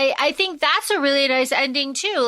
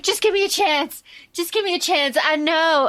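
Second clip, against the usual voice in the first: higher, pleading retold quote; begging; 5 semitones higher than usual. Clay running up the front steps, begging. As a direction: plead with her, lightly acted. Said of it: "begging for her".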